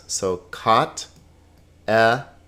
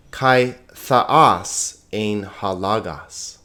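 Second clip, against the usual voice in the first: slow Greek read-along, one phrase at a time; smooth measured reading; slower than usual. Shown as a demonstration. Teacher leads students reading along in Greek, smooth and measured. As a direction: read deliberately, pausing at each punctuation break. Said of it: "read it sort of at a smoother, uh, medium pace".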